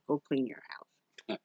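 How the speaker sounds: slow mock-stern command; slow insistent. Real, not acted. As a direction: drag out "go clean your house" like an order.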